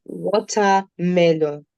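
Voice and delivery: Watermelon said slowly and clearly, as a teacher's model; model word. Shown as a demonstration. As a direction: sound out Watermelon slowly for the class. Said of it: "Diversa melone".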